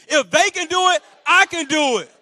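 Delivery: high, loud, emphatic mantra; said with conviction. Shown as a demonstration. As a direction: say it like you truly mean it. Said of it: "Say it like you mean it".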